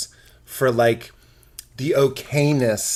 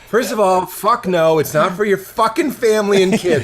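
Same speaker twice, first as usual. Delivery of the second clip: heated rant; 4 semitones higher, 3 dB louder than usual. Retold or imitated. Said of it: "I'm like".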